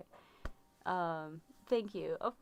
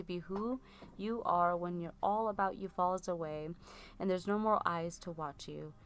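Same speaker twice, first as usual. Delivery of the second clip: solemn blessing read aloud. Acted. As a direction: read it like a gentle benediction. Reads a blessing.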